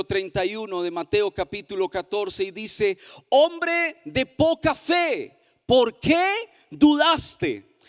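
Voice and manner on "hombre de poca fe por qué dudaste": slow, higher lament of disbelief; astonished sadness. Acted. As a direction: ask it as a grieving, amazed question. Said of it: "denota de alguna manera asombro ... algo de tristeza". (asombro y tristeza, lento y agudo)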